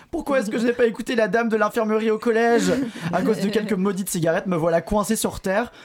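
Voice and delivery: high, hammed-up desperate pleading; mock despair. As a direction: wail like a lost cause.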